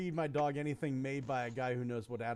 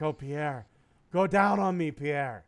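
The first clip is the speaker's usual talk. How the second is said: hammed-up louder begging lady; mock pleading woman; 8 dB louder, slower than usual. Joke teller plays the woman begging Pierre, mock plea. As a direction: beg like an overeager lover.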